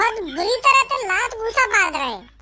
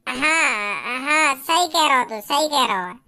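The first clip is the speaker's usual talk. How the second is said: mock crying agreement; 8 semitones lower, slower than usual.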